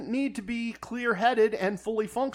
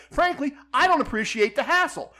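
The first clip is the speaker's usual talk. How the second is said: retold indignation; 8 semitones higher, 3 dB louder than usual. Gambler ends his retold argument.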